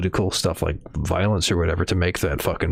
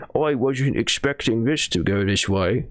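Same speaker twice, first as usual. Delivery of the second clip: put-on New Zealand accent. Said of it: "that's like a New Zealand accent".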